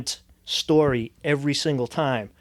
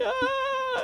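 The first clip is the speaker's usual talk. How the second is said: very high, thin imitated scream; mock scream; 6 dB quieter than usual. Retelling his childhood fright, high-pitched mock scream. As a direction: fake a kid's scream without full volume. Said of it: "I screamed".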